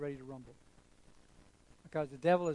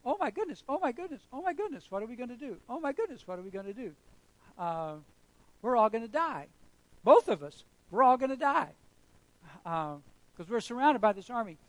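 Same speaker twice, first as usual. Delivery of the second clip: much higher, frantic mock panic; panicky Gehazi; 6 semitones higher, 7 dB louder than usual. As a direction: squeal it like a terrified servant. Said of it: "Gehazi was going".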